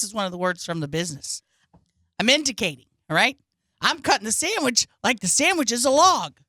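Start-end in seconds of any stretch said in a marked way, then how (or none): 2.2-6.4 louder, higher, over-emphatic delivery; hammed-up demonstration of overacting; exaggerated indicating. Actor explains cutting the sandwich to listeners, exaggerated indicating.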